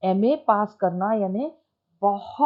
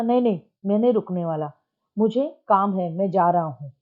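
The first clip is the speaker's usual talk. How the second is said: mild anger; 2 semitones lower, faster than usual. Shown as a demonstration. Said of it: "उसने बोला".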